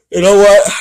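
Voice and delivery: high, loud sudden exclamation; exclaiming. Real, not acted. Sudden outburst closing video.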